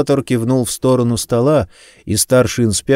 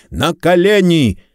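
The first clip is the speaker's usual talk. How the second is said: higher, drawn-out shouted order; roared command; 8 semitones higher, 3 dB louder, slower than usual. A narrator's reading. Detective storming in orders suspect to kneel, roared command. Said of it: "взревел Кэт".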